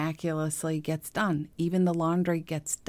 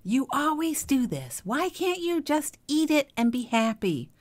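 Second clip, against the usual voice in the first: much higher, put-on voice of a complaining parent; scolding parent; 10 semitones higher than usual. Parent brushing off a child's complaint, high mock voice. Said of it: "the parent made it all about themselves".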